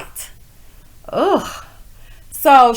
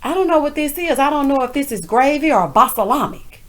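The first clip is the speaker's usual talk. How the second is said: 1 quoting Juicy; 5 semitones higher than usual. Retold or imitated. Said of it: "Miss Juicy says".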